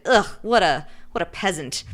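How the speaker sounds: imitated snobbish disgust; hammed-up disgusted scoff; mock disdain. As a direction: sneer it with put-on contempt. Snob disgusted by her green hair.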